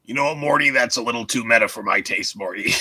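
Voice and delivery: lightly voiced grumpy scientist; a hint of Rick; Rick impression.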